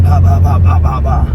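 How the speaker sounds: loud mock punching noises; punch sound effects. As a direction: rattle off the hits like a cartoon. Imitating punches.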